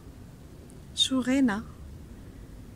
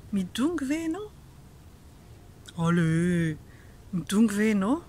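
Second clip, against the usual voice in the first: teasing question; much slower than usual. Shown as a demonstration. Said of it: "Tu boudes?".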